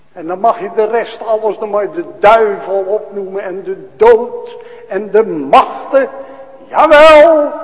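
loud, fast, high triumphant cry, slowing on heeft overwonnen; preaching at full force. Acted. Preacher proclaiming Christ's victory over death, loud and triumphant. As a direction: shout down death and the devil.

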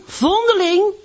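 high, loud jeering call, rising at the end; sing-song it back up, mocking; boys calling out. The oil merchant's boys taunting Hanneske on the way to school, rising shout. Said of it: "riepen de jongens van de olieboer".

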